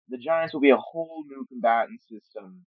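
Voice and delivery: a lightly hammed-up movie trailer read; dramatic announcer. Host announces new combatant system, mock trailer voice. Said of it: "I don't know why I said it like that".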